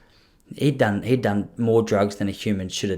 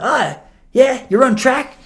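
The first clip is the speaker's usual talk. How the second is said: imitating the dealer; 13 semitones higher, 6 dB louder, slower than usual. Dealer voiced in retold story.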